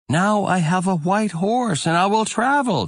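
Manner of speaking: put-on high, joyful young voice; excited boy. A narrator's reading. Boy shouting his joy about the horse, high and excited. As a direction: crow it out like a thrilled boy.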